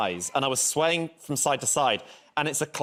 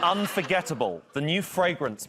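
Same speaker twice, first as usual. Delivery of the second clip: sultry perfume ad; 3 semitones higher than usual. Pretend. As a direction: announce it like a luxury ad. Repeats perfume pitch.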